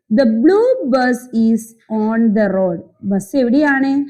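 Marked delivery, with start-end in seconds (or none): 0.1-2.8 very slow, word by word; slow reading aloud. Shown as a demonstration. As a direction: spell the sentence out slowly for kids. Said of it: "Then അതിന്റെ താഴെ". (പതുക്കെ വാക്കുവാക്കായി വായന)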